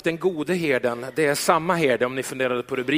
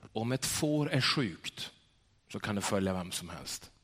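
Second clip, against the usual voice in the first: quiet reply; 6 semitones lower, 8 dB quieter than usual. Retold or imitated. Shepherd's quiet punchline.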